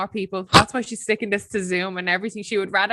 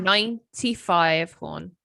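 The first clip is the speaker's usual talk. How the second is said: pointed correction; much slower than usual. Real, not acted. Correcting the year, drawn out.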